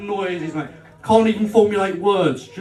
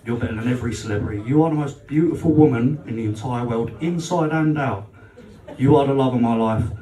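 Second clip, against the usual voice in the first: mock tender declaration; 6 semitones lower than usual. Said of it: "said to her".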